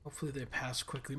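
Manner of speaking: talking through hiccups. Real, not acted. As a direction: speak between hiccups. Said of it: "What a terrible time to get the hiccups".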